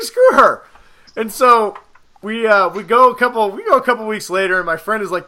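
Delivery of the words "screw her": mock loud brush-off. Retold brush-off of the girl.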